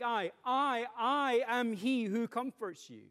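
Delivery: each I leaned on hard, the line taken slowly; emphatic I. Shown as a demonstration. Preacher voicing God's answer to his people, emphatic and slow. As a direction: plant the repeated I firmly and slowly. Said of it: "begins his response with this emphatic".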